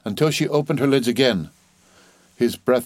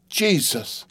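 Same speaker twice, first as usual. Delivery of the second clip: higher, stunned gasp; horrified exclamation; 7 semitones higher than usual. A narrator's reading. Husband struck by the horrible truth, aghast. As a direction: let the horror rise in pitch. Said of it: "staring about him and whispering".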